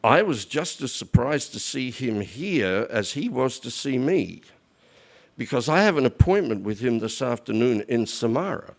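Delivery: measured, unhurried reply in a storyteller's voice; retold calm. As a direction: play Death as composed and matter-of-fact. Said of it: "death is very calm".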